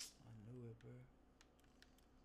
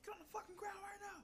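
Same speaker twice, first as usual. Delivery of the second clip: urgent whispered command; faster than usual. Pretend. Fast shouted-whisper command.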